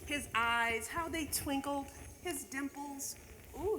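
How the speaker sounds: lively storybook reading of a Christmas poem; a teacher reading The Night Before Christmas to the class; reading to children. Acted. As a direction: read it like a bedtime story to kids. Continues reading poem, softer.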